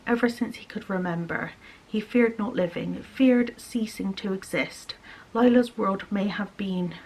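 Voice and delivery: reading a novel aloud, steady; story narration. A narrator's reading. Vlogger reads a fantasy novel passage to her viewers, measured narration.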